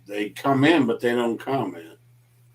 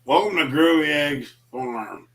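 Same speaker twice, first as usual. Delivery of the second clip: a barely shifted take on Jeff's welcome; a lightly voiced imitation of Jeff greeting viewers; Jeff impression; 3 semitones higher than usual. His second try at a Jeff greeting, lightly voiced. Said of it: "That's the worst Jeff impression".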